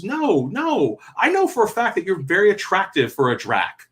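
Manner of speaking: high, insistent comforting; earnest reassurance. Retold or imitated. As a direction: insist gently to a hurt child. Voices adult reassuring the child.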